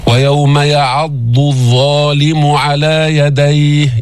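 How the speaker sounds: slow chanted verse; Quran recitation. Shown as a demonstration. Teacher reciting an example verse, slow chant. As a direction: recite slowly, dad and dha distinct. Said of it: "الضاد له مخرج والظاء له".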